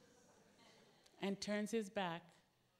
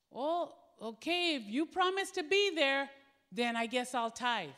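hesitant agreement; 3 semitones higher, 7 dB louder than usual. Retold or imitated. Man reluctantly agreeing.

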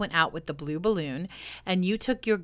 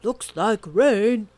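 mock weather remark; 3 semitones higher, 8 dB louder, much slower than usual. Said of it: "look up at me ... and say".

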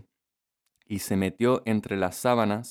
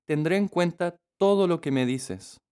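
put-on little girl voice; 7 semitones higher than usual. A narrator's reading. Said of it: "dijo la niña".

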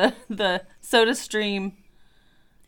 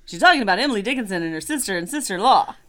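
announcer voice; 3 dB louder, faster than usual. Acted. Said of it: "That got a little Johnny Bravo".

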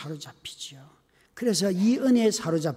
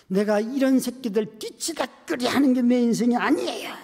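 retold angry outburst; 4 semitones higher than usual. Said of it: "그러면서 막 화를 내면서".

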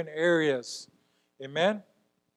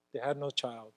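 "had" stressed, the repeat dropped much softer; soft echo; 5 semitones lower, 15 dB quieter than usual. Acted. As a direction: echo "They had no child" quietly to yourself. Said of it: "repeated for weight".

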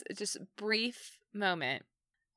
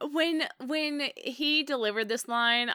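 normal talking voice

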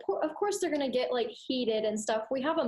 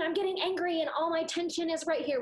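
tense angry talk; 5 semitones higher than usual. Shown as a demonstration. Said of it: "We really talk".

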